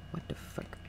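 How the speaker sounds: breathy whispered swear; whispered curse. Real, not acted. Sudden lag.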